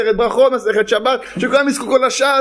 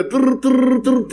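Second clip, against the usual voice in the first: put-on old engine putt-putt. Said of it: "השני, מנוע פייפר".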